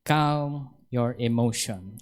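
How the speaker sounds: slow, settled repeat of "Calm your emotion". Shown as a demonstration. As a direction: say "Calm your emotion" slowly, lowering it gently. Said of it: "sabi ng Panginoon".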